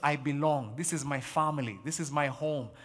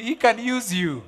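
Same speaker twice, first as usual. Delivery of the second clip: emphatic promise; 6 semitones higher, 9 dB louder, slower than usual. Real, not acted. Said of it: "If God could use me".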